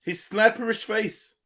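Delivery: each word drawn out slowly; slow and deliberate. Real, not acted. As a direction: spell it out slowly.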